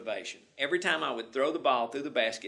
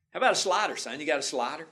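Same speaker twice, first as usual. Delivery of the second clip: loud, high call across the field; coach shouting; 5 semitones higher, 7 dB louder, faster than usual. Retold or imitated. Coach testing the boy's pitches, a loud high shout. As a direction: push the boy, shout it out.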